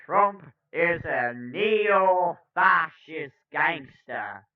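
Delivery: first stab at a slow, loud orator; a rough impression, key words stretched and punched; Cornel West. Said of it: "I can do a better Cornel voice".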